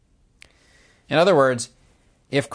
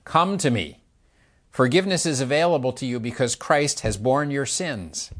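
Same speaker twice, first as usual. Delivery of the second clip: God's invitation; 4 semitones higher than usual. Retold or imitated. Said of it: "with his arms open wide, saying".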